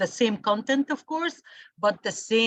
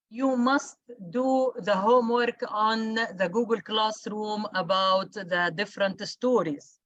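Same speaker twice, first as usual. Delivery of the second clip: "must" stressed with a rise, the rest plain. Shown as a demonstration. Teacher telling students to do the homework, stressing "must". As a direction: hit "must" so nobody skips the homework. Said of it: "I emphasize on the word must".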